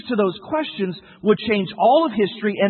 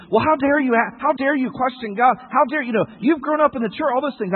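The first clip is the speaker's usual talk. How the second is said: higher-pitched, indignant parent act; mock scolding; 5 semitones higher than usual. Parent tempted to rebuke a questioning son, mock scolding. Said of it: "we can scold them".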